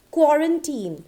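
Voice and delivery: put-on QUARANTINE ending in a long "teen"; correct pronunciation. Shown as a demonstration. Teacher introducing the next common word, correct pronunciation. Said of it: "but it is quarantine".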